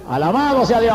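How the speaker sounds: praise shout. Real, not acted. Preacher praising God mid-testimony.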